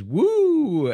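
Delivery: very high, loud cheer; excited whoop. Retold or imitated. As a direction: let out a big happy whoop. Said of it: "good old Danny says".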